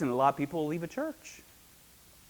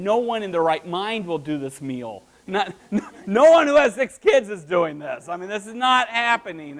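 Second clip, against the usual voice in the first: louder, higher, exasperated rant; frustrated protest; 4 semitones higher, 6 dB louder than usual. Retold or imitated. Mother of six rejecting the long recipe, exasperated. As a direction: protest like a fed-up mom.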